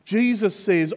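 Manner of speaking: usual speaking voice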